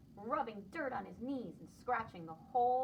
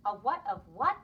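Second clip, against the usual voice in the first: louder, baffled what of what; confused question; 9 dB louder than usual. Acted. Buddy mishearing his mother, loud and baffled. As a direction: blurt out the confusion.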